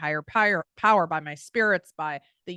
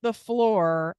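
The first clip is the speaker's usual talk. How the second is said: laughing through the words, louder and higher; laughing while telling; 5 semitones higher, 6 dB louder, slower than usual. Real, not acted. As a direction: giggle out the memory of rocking on the floor. Laughs recalling rocking on floor.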